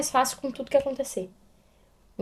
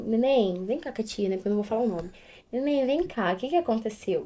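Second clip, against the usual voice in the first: gentle teacher voice; 6 dB quieter than usual. Retold or imitated. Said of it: "Eu cheguei e falei assim".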